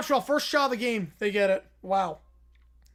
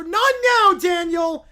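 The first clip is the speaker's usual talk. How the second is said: snapping; 7 semitones higher, 10 dB louder, slower than usual. Acted. Cutting off a friend.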